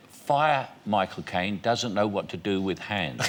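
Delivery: slow, measured telegram readout; reading a telegram. Acted. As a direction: spell out the verdict slowly, deadpan. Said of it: "It said".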